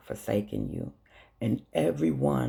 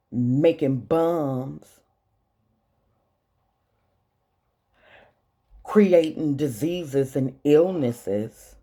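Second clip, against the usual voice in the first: heated rant that grows louder toward the end; rising anger; 3 dB louder than usual. Real, not acted. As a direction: build from a sharp question to a louder tirade. Rant building against billionaires.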